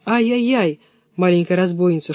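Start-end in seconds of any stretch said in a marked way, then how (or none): 0.1-0.8 mild cry of pain. Acted. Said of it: "Вскрикивает".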